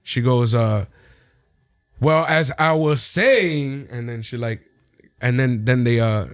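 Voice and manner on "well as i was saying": mock annoyed. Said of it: "she's audibly annoyed".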